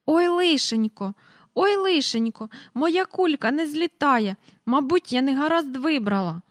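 a lady moaning that her balloon won't rise; fretting old lady. Acted. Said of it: "почувся раптом чийсь голос". (висока повільна бідкання старенької)

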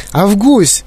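high-pitched motherly call. A narrator's reading. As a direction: call out to your son. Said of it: "покликала пані Глуп". (мати гукає сина)

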